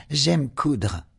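put-on high, cheerful girl; young girl voice. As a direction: agree brightly. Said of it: "thought Zoe".

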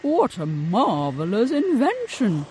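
loud, delighted exclamation; excited cry. A narrator's reading. Inventor marvelling at a hand dryer, loud and delighted. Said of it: "cried Mister Logan".

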